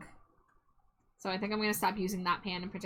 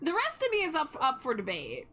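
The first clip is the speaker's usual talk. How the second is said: high squeaky character voice; 6 semitones higher than usual. Acted. Egg character pleading.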